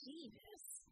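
very soft, breathed oath; muttered. A narrator's reading. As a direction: mutter it under your breath. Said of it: "Bella muttered".

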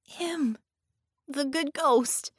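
put-on high, slow child's voice; a small child's awed whisper of wonder; high and slow little girl. A narrator's reading. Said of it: "the little girl said".

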